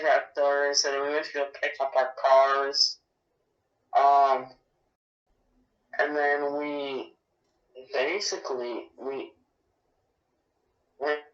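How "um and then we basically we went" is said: signal cutting out on the phone; words dropping out over a bad line; radio breaking up. Real, not acted. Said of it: "You breaking up, man?".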